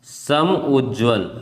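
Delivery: सम उज्ज्वल said very slowly, split into two parts; slow spelled out. Shown as a demonstration. A teacher showing students how it splits, very slow. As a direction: break सम उज्ज्वल apart, syllable by syllable. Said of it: "ये actually में ऐसे होगा".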